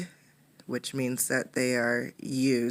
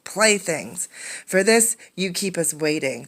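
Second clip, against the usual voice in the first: angry grumble; 2 semitones higher than usual. Acted. Woman grumbling angrily at Condi over playthings. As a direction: scold the boy with contempt. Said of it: "the woman grumbled angrily".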